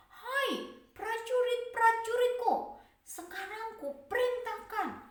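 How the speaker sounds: loud, high royal commands; commanding king. Acted. Pharaoh ordering his soldiers, loud and commanding. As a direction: boom out orders like a troubled king.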